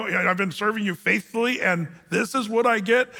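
a prophet half-whining at heaven; mock questioning God. Preacher imitating Elijah questioning God, a touch incredulous. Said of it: "you kinda see him questioning".

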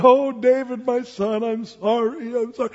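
mock tearful remorse; a touch of a sob, lightly acted; imitated weeping apology. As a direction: plead as a lightly acted penitent king. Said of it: "And he wept".

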